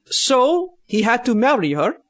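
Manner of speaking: put-on broken-English Russian accent, slipping in and out; loosely held jokey Russian accent; bad Russian accent. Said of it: "So, in Russian voice".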